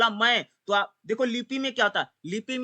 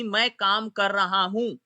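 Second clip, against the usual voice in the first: slow example; slower than usual. Shown as a demonstration. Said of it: "सुन लीजिए".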